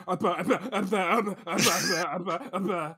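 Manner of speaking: chant. Retold or imitated. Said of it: "I wanted to see Cavalry go".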